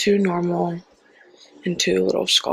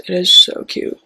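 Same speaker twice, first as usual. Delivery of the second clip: excited gush; 6 dB louder than usual. Real, not acted. Gushing over a hair clip.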